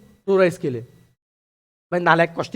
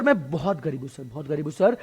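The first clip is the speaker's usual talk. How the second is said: mock crying plea; 4 semitones lower, 6 dB quieter than usual. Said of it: "रोना शुरू करता है".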